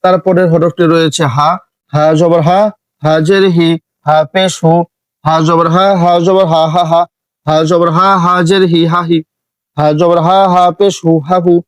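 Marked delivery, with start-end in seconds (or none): 1.9-11.5 crisp harakat recitation; short vowels, no stretch. Shown as a demonstration. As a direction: show that no vowel is lengthened. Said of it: "দেখছেন কোনোটা টান হচ্ছে না".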